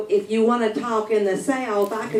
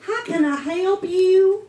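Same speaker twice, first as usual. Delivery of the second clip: mock clerk greeting; 10 semitones higher, 5 dB louder than usual.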